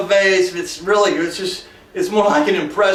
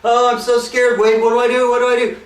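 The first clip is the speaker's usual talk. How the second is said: higher, breathless mock panic; hammed-up fright; 5 semitones higher than usual. Girlfriend on the phone to Wade, hammed-up panic. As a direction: overplay a helpless movie girlfriend. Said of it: "she's on the phone like this".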